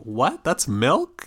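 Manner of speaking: first time seeing milk in a bag; shocked disbelief. Retold or imitated. Shocked to see bagged milk.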